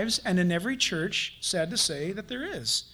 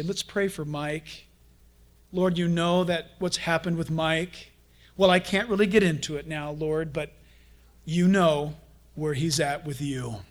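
hushed hypocrite prayer; 5 semitones lower than usual. Retold or imitated.

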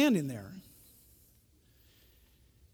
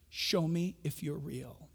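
slow, soft and lower; quiet plea; 3 semitones lower, 7 dB quieter, slower than usual. Retold or imitated. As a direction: plead slowly. Repeating Waleed's prayer.

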